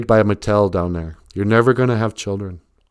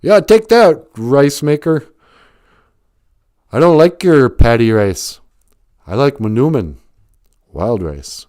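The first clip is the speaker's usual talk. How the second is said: mock battle taunt; 4 semitones higher, 5 dB louder than usual. Soldier taunting enemies in jungle.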